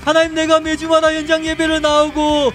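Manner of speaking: loud prayer building to a high, sustained cry; fervent prayer. Real, not acted. Pastor leading repentance prayer to God, loud and impassioned. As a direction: plead with God at full force, phrase endings held.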